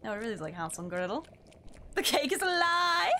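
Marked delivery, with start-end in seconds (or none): 1.9-3.1 1 dramatic cry. Acted.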